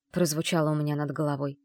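ordinary delivery, nothing marked

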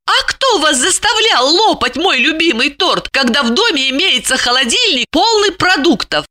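high, reproachful woman's voice; indignant Lipochka. A narrator's reading. Lipochka pieces together his misdeeds, indignant. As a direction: accuse him in a high voice.

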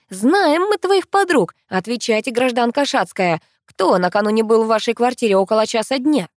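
a hint of a stern police investigator; bad cop interrogation. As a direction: play the strict detective. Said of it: "злому полицейский".

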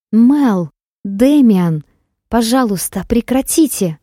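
desperate cry. Acted. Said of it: "бессильно прошептала она".

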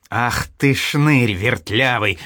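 slow, growling outburst of an angry father; exploding in anger. Acted. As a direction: blow up at the cheeky son. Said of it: "взорвался Семён Ульянович". (гневно взрываясь, медленно)

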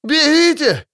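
намного выше, с дрожью в голосе; крикни высоко и испуганно; высокий дрожащий крик. Acted. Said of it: "высоким, дрожащим голосом". (солдат в ужасе предупреждает лекарей)

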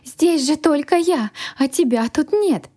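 high-pitched, puzzled clarification; puzzled dragon. A narrator's reading. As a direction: voice a baffled dragon, pitched well up. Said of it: "озадаченно уточнил дракон".

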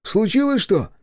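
high, anxious reply from below; alarmed. Acted. The bespectacled man answers from below, alarmed and high. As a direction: sound worried. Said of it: "Встревоженным голосом".

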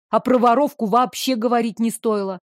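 plain reading voice

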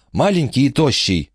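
put-on high, wary old lady voice; warning old lady. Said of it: "предупредила она".

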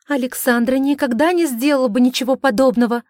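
loud, high pleading defence; urgent protest. A narrator's reading. Sister defends Alexandra, loud and pleading. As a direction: reason with him, alarmed. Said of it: "постаралась образумить отца".

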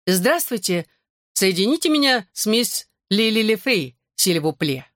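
snooty French maestro on the phone; haughty French accent. Acted. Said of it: "с густым французским акцентом". (надменный французский акцент)

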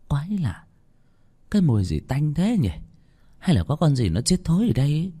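put-on old woman grumbling. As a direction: raise the pitch, grumble at a bad smell. Bà Hương lẩm bẩm ngửi mùi. (giọng bà già cao, càu nhàu thắc mắc)

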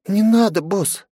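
put-on a young assistant's high voice, pleading; Margo pleading. A narrator's reading. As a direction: beg the boss to stop. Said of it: "выдохнула слегка помятая Марго".

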